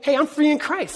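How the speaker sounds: offhand, careless tone; casual shrug. Retold or imitated. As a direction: toss it off lightly. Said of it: "we're kinda like".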